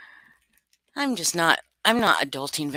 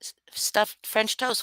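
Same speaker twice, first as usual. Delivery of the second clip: whisper; 3 semitones higher, 7 dB quieter, slower than usual. Real, not acted. Puzzled aside about the stuffed French toast.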